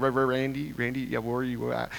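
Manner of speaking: retold stutter, repeating first sounds; imitated stutter. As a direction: stammer on the name Randy. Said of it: "he's stuttering".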